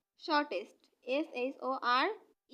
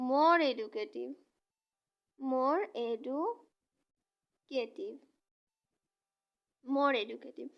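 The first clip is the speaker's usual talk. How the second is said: very slow, drawn-out more educative; slow model phrase; much slower than usual. Shown as a demonstration. Teacher modelling the comparative of educative, very slowly. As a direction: stretch more educative for the class to copy. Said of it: "তখন এটা হবে".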